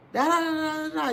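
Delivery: high, loud run of da-da filler; mock chatter. Mimicking talk that goes unheard.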